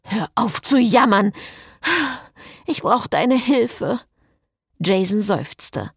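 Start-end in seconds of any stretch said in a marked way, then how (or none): 0.1-4.0 higher, impatient demand. A narrator's reading. Cécile needs Jason's help, impatient. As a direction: urgently cut the complaint short.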